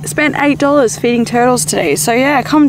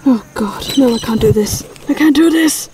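mock panic; 3 semitones higher than usual. Magpie panicking.

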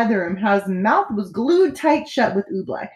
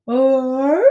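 sleepy yawned question; yawning; 4 semitones higher than usual. A narrator's reading. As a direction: yawn the word out. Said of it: "yawned the trumpeter".

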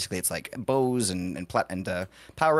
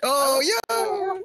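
excited cheer; much slower than usual. Real, not acted. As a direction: cheer the catch. Cheering after a catch.

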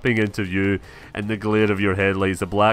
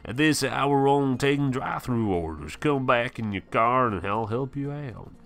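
storekeeper Calvin; 3 semitones higher than usual. Acted.

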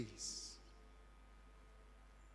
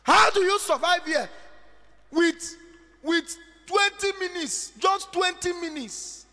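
incredulous mock challenge; 10 semitones higher, 7 dB louder than usual. Preacher mocking student incredulously.

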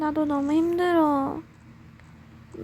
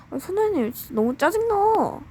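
higher, whining protest; whiny complaint; 5 semitones higher than usual.

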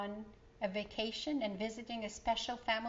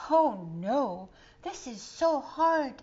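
huffing and puffing; 3 semitones higher, 8 dB louder, slower than usual. Acted. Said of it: "huffing and puffing".

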